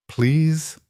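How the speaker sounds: put-on small high pleading child. A narrator's reading. Child begs to call mother.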